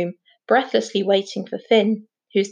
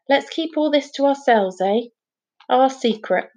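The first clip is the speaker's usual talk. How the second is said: lightly voiced father, cautioning; wary father; 2 semitones higher than usual. Father warns his son about scientists, wary and cautioning. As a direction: warn him off, then draw him into confidence.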